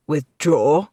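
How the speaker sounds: loud incredulous echo; disbelief. A narrator's reading. Knight stunned by the retreat order, disbelieving. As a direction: throw the word back in disbelief. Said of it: "said in disbelief".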